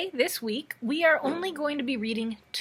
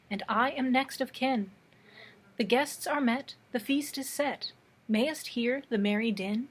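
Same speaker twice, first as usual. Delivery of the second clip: measured, deliberate verse recital; poetry reading. Acted. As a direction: read it as an old ballad, phrase by phrase. Reads a poem aloud.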